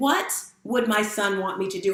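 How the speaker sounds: ordinary delivery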